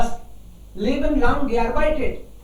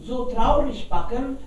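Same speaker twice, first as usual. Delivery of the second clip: donkey asking. Acted. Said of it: "Fragt der Esel".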